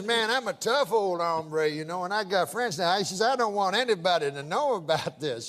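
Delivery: put-on lightly done old prospector accent; a hint of an old-timer's Western accent. Prospector confiding in the bartender, light old-timer accent. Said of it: "I can tell by the accent".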